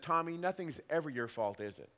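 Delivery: dry sarcastic question, dropping to soft at the end; father teasing son about blame, mild sarcasm. Retold or imitated. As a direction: tease him with dry sarcasm. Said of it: "I sarcastically said".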